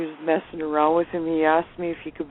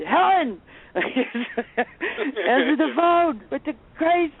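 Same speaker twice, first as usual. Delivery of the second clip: mock yelling at wife; 9 semitones higher, much slower than usual. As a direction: holler at her to get the phone, dragging it out slowly. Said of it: "and then he'd".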